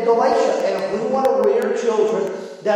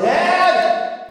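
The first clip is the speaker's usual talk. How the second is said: put-on high-pitched kid calling out; boy's yell; 9 semitones higher than usual. Little boy calling from bed to his dad, high mock yell. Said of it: "the boy yelled".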